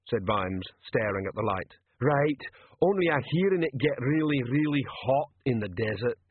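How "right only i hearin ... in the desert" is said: lightly voiced dim troll, worried; a hint of a troll character voice. Troll confiding worries to Vimes, dim and earnest.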